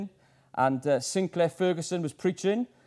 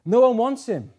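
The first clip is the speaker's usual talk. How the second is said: laughs through it, a bit higher and louder; laughing; 4 semitones higher, 5 dB louder than usual. Real, not acted. Preacher laughing as he tells the church nobody wants Christ. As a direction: chuckle out the hard truth.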